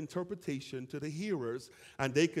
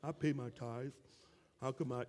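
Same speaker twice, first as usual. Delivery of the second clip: soft, hushed mock complaint; mock self-pity; 7 dB quieter than usual. Churchgoer without the gift complaining to himself, soft and mock-wounded. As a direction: mutter it like the one left out. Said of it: "you kinda sit there like".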